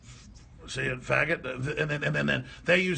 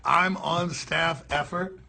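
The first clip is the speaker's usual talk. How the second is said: slow mock echo; 2 semitones lower, much slower than usual. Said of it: "She ought to be saying".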